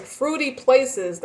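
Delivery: a playful lilt on fruity; funny drawn-out fruity. Real, not acted. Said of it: "Why I say fruity like that?".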